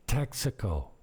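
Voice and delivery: TEXACO stressed on TEX, American-style; English pronunciation. Shown as a demonstration. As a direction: hit the first syllable of TEXACO. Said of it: "how the locals say Texaco".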